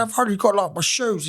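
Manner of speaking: high-pitched excuse; put-on voice of a hapless mate; imitating a workmate. New starter excusing his footwear to a workmate, imitated high voice. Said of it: "this is how he talks".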